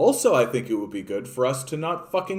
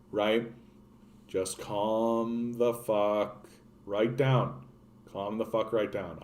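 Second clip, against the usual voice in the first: softer, slow talk-down voice; a hint of a guided meditation, softer and slow; mock soothing calm; 4 semitones lower, 4 dB quieter, slower than usual. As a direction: coax an angry customer into breathing. Soothing an imagined angry Karen.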